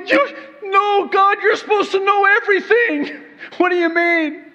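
high, loud, protesting in disbelief; hammed-up frantic pleading, close to laughing; mock panic. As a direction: act out an exasperated freak-out. Acts out panicked reply to God.

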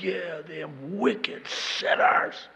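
slow, put-on righteous scorn; mock condemnation. Self-righteous reader agreeing about the wicked, slow hammed-up scorn. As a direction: drag it out with relish. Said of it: "I'm like".

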